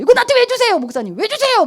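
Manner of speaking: high-pitched, indignant protest; mock annoyed friend. Friend objecting to the pastor's birthday gift, mock annoyed. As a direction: imitate a friend getting huffy over a gift. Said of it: "바로 화를 내는 친구가 있어요".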